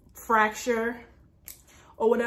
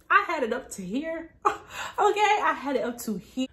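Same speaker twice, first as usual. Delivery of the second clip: laughing exasperation; 4 semitones higher than usual. Real, not acted. Fed-up laughing retelling.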